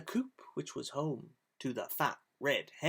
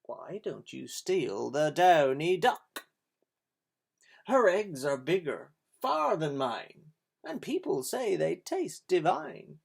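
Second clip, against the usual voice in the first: crafty hen; 5 dB louder than usual. Acted. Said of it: "the fat red hen began to cluck".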